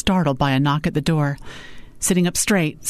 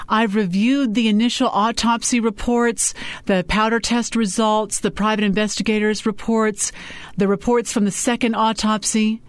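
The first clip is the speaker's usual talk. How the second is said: higher, measured listing; lightly voiced Sophie, professional; 6 semitones higher than usual. A narrator's reading. Sophie briefs client on the reports, higher and businesslike. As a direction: list each report for the client.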